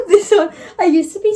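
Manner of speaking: laughing through the words; breaking into a laugh. Real, not acted. Laughs at her own Wattpad memory.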